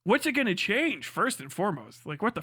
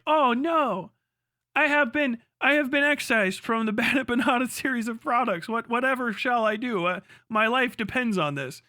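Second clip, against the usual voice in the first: mock distress. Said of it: "people go like".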